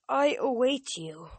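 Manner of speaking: eerie godly voice. Acted. Quoting Pan's voice.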